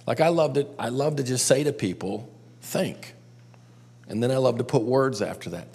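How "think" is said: a single hushed "Think."; whispered word. Shown as a demonstration. Leader showing the group how he tells people to think, hushed. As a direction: breathe the word out softly. Demonstrates what he says to people.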